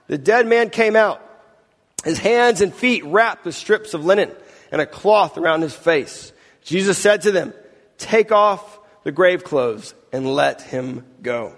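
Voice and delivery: measured, expressive Bible reading; scripture reading. A narrator's reading. Pastor reading the raising of Lazarus to the congregation, expressive scripture reading. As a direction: read scripture aloud dramatically, giving dialogue some lift.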